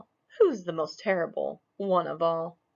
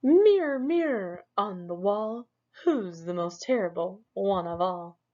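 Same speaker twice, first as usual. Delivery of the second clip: calling the mirror; 2 semitones higher than usual. Acted. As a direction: summon the mirror with a cry. Smug calls to his mirror.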